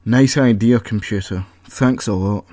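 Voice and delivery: grumbling sarcasm. Acted. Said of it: "grumbled to himself".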